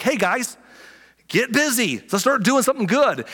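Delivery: mock rally call. Pastor acting himself urging the lazy ones, loud and high. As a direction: rouse the crowd, mock-preacher. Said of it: "you're like".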